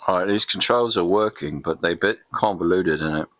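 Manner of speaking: light put-on English voice ending in innit; casual Brit gamer aside; mock English accent. Gamer fiddling with controller in a light mock English accent. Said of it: "Can't get out of my Soccer Kid affectation".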